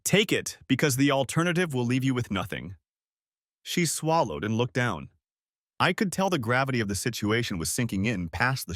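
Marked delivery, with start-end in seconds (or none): 0.0-2.8 firm, cold warning; hard tone. Acted. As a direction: lay down the threat hard. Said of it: "My tone grew hard".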